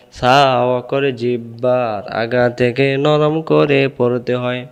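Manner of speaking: slow, drawn-out rote chant; measured singsong drilling; memorization recitation. Shown as a demonstration. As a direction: stretch each syllable for learners to memorize. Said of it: "আমি তিনবার পড়ব".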